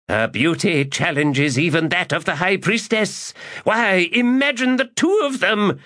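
high, giddy cackling aside; gleeful old lecher. Acted. Old magus ogling the two women, high and giddy.

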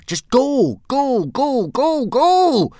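very high, loud repeated yells; frantic scream. A narrator's reading. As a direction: scream the command over and over, desperately. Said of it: "screamed Hiccup".

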